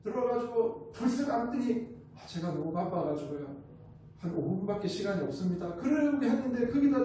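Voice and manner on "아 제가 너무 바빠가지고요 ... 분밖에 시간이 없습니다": lightly voiced weary executive; a hint of tired, subdued brush-off; tired busy chairman. Exhausted chairman telling the visitor he is busy, lightly acted weariness. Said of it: "피곤에 쩔어가지고 들어오셨어".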